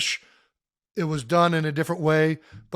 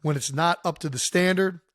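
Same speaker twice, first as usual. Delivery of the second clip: fired-up quote; 4 dB louder than usual. Retold or imitated. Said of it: "he also said".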